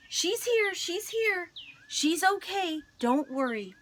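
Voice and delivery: high, loud reassuring call; relieved shout. Acted. Aunt shouting across the street that grandma is safe, relieved shout. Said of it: "My Aunt Ida waved and shouted".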